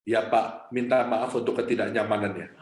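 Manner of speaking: gentle, patient apology to an angry customer; calm reply. Retold or imitated. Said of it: "Dia dengan tenang berkata".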